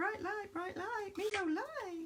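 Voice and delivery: very high, squeaky little toy voice. Describing something very bright, the speaker quotes what their Furby used to say: Furby voice. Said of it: "that was my impression of a Furby".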